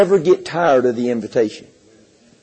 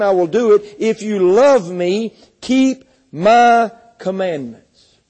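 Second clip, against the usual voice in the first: scripture reading. Acted. Preacher reads Jesus' words to the church, solemn and rising. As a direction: read the gospel aloud to the congregation. Reads John fourteen aloud.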